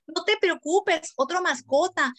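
breezy parent. Retold or imitated. Parent consoling over pet.

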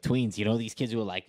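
put-on out-of-touch New Yorker accent. Podcast guest explaining tweens to listeners, New York accent. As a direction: talk like a clueless New Yorker. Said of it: "from New York, obviously".

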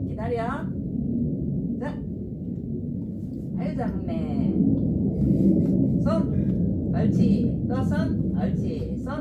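high, loud commands to a dog; bright sing-song orders to the pet. Real, not acted. Giving dog commands, treats.

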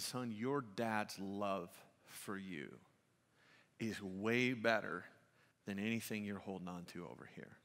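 tender. Retold or imitated. Father comforting son, solemn.

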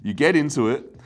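high and loud, heated rant; ranting about wine, fired up; worked up. Real, not acted. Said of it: "I can actually hear the annoyance in my voice now".

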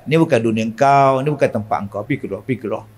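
gently coaxing. Shown as a demonstration. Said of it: "Gurau-gurau dia".

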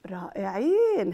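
gasped slow praise; delighted gasp. Acted.

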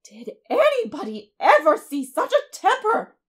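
high, loud scandalized cry; shocked busybody outburst; horrified exclamation. A narrator's reading. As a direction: exclaim it, utterly appalled. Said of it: "exclaimed the horrified Missus Rachel".

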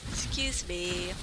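slow, yawning through words. Real, not acted. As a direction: talk mid-yawn. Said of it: "The yawns are too real".

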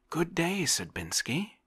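cheerful greeting. A narrator's reading. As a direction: call out gladly to a welcome friend. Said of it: "cried Oblomov cheerfully".

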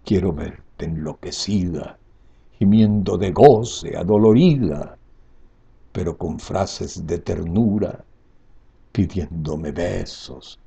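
passionate recital, swelling and falling; grand poetry declamation. Acted. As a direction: declaim each line with longing. Recites the poem aloud.

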